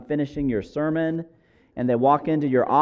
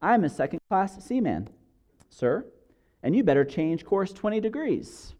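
seaman's reply; 5 semitones higher than usual. Acted. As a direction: answer back politely but unbudging, pausing around "sir". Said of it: "a message comes back".

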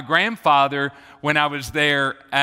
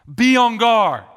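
"Be on guard." higher and louder, punching "Be"; urgent command; 4 semitones higher, 4 dB louder than usual. Acted. Preacher warning the church, loud urgent command.

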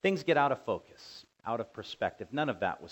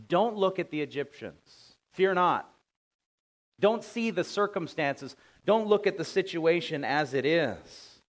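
higher, louder urging with stretched words; urgent divine command; 6 semitones higher, 5 dB louder than usual. Acted. Preacher voicing God urging the people not to fear, loud and high. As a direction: plead with them to stop staring at trouble. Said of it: "What God is saying to the people is".

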